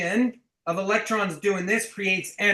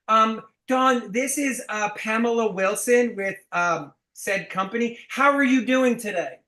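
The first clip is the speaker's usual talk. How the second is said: hesitant then fake-chipper rep; mock a rep reading a bad script; weak scripted caller; 4 semitones higher, 4 dB louder than usual. Shown as a demonstration. Coach mocking a bad cold caller, hesitant and fake-bright. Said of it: "you're not like".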